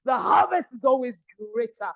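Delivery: preaching shout. Acted. Rousing the audience mid-sermon.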